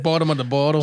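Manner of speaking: a clumsy try at a Boston accent; attempted Boston accent. Shown as a demonstration. Admitting he can't do it, clumsy Boston accent. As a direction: fumble through a Boston accent on purpose. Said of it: "I can't even do that accent".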